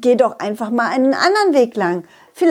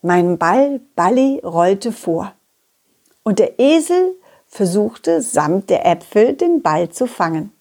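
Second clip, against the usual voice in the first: put-on unhurried storyteller reading to children; story narration. A narrator's reading. Narrator tells children how the donkey chased Balli, storytelling. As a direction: tell it like a bedtime story.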